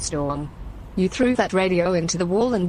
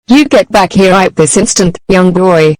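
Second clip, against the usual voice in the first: angry yell; 14 dB louder than usual. Acted. Parent yelling at fleeing son.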